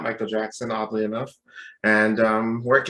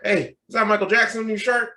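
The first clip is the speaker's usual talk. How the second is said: higher-pitched imitated Southern stranger; Southern accent; 8 semitones higher, 3 dB louder than usual. Gym stranger asks about the shirt, Southern accent. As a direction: ask eagerly in a Southern accent. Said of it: "he had, like, a Southern accent".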